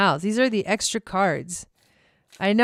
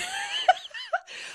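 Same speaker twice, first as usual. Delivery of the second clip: big laugh; 7 dB quieter than usual. Real, not acted. Laughing at own rant.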